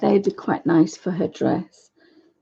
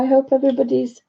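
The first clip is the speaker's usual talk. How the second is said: croaky voice; 4 semitones higher, faster than usual. Real, not acted. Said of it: "I've got a croaky voice today".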